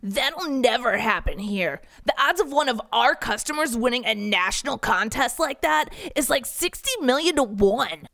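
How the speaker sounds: a skeptical coworker shrugging it off; Riley's voice. Acted.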